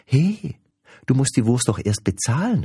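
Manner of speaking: indignant saleswoman calling out. A narrator's reading. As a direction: call after the customer sharply. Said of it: "rief sie".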